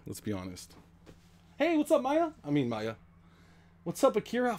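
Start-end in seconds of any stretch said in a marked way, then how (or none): 1.6-2.3 much higher, louder sing-song greeting; cutesy pet greeting. Real, not acted. 3.8-4.6 high breathy whisper to the dog; whispered pet greeting. Real, not acted.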